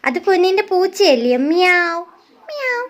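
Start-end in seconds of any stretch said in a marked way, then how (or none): 1.5-2.0 a meow at normal speaking pitch; cat meow. Shown as a demonstration. Parent showing the toddler how the cat cries, meowing. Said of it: "എങ്ങനെ പൂച്ച കരയുന്നേ". 2.5-2.8 high, soft little meow; cat meow. Shown as a demonstration. Parent showing the toddler the cat's cry, soft high meow. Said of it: "എങ്ങനെ പൂച്ച കരയുന്നേ".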